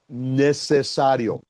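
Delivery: necesario said slowly and set apart; stress on necesario. Shown as a demonstration. Pastor singling out the student's word, slow stressed necesario. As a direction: linger on necesario, spelling it out. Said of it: "hasta que usas la palabra".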